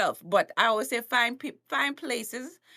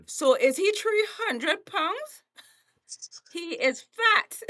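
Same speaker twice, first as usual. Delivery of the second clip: slow blunt emphasis; 7 semitones higher, 4 dB louder, slower than usual. Real, not acted. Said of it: "stating it bluntly".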